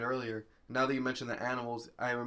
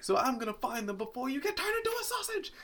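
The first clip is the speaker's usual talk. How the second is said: menacing villain voice; 9 semitones higher than usual. Retold or imitated. Acting out Cruella line.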